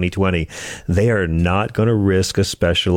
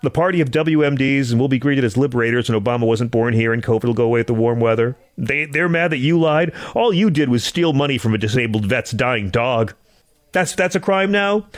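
mock sympathetic; 5 semitones higher than usual. Mock reassuring talk to Santos.

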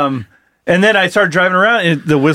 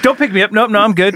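lightly voiced dog, a bit higher-pitched; reluctant dog's voice; 5 semitones higher than usual. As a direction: wave off help as the tired dog. Voices a tired stray dog refusing help.

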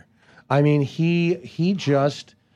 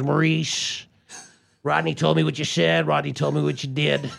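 Kinison impression. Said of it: "Kinison calls me and goes".

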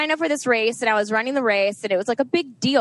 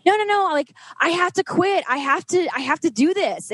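urgent insistence; 7 semitones higher than usual. Retold or imitated. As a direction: insist it, voice jumping up high. Frantic reply to worried sister.

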